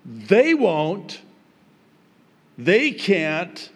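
"They" pushed high in each short phrase; stress on THEY. Shown as a demonstration. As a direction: lean hard on "They", then stop. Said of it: "Now, the emphasis is on".

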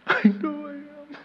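high, put-on little voice; sheepish confession. Reader caught out by the Holy Spirit, high sheepish voice. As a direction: squeak out a mock admission. Acts sheepish reply to the rebuke.

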